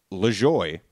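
Lajoie said as "luh-JOY"; Anglicized name reading. Shown as a demonstration. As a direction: say Lajoie the English way, rhyming with joy. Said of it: "pronounces his last name".

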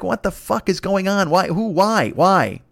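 exasperated disbelief, ending on a punched why; mock bewilderment. Comedian reacting to viral clips, mock bewilderment. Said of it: "then you're like".

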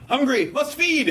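high, slow mechanical monotone; robot machine voice. Retold or imitated. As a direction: talk like a hungry machine. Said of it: "the machine's like".

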